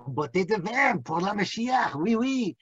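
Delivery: mock French accent, oui oui; hammed-up French lilt. Rabbi imitates the French demanding Mashiach, mock French accent. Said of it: "the French".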